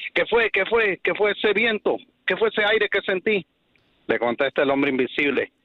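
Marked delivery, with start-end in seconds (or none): 0.1-3.5 startled Wonder Woman. Acted. Wonder Woman startled, voiced higher.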